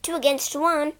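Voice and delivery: smug, triumphant; crowing. Acted. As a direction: gloat over winning. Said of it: "crowed Peter".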